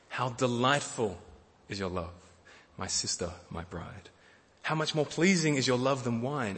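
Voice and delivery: gentle reading of a love poem; tender scripture reading. Acted. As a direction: read it like a husband speaking to his bride. Reading the lover's poem aloud.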